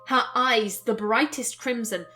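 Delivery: measured, expressive reading of a story; story narration. A narrator's reading. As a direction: narrate the scene with care. Reads the game's narration aloud.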